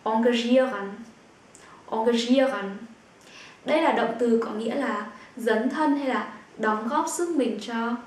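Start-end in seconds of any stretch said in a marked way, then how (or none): 0.0-2.8 engagieren opened with rounded "on-", as "on-gah-ZHEE-ren"; regional variant pronunciation. Shown as a demonstration. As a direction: model the variant "engagieren" with o in the first syllable. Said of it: "Cũng có nơi họ phát âm là".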